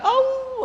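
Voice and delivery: high-pitched imitated wolf howl. Preacher imitating a woman in church, wolf howl. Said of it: "a gritar como lobo".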